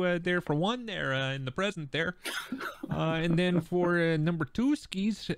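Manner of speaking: a light Wisconsin accent slipping into game talk. Real, not acted. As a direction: drift into a mild Wisconsin accent. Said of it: "when I start pulling out the accent".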